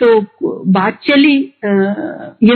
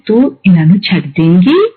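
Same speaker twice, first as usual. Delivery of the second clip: very polite; 4 semitones lower than usual. Retold or imitated. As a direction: ask it as gently as you can. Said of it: "उससे polite आवाज आज तक मैंने सुनी नहीं है".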